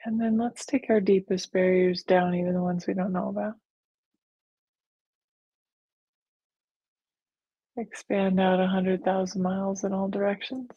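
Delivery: calm, even meditation guide; guided meditation. Real, not acted. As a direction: lead them gently, with long pauses. Leads a guided visualization.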